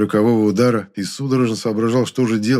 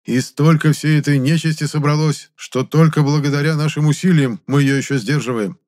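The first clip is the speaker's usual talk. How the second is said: ordinary delivery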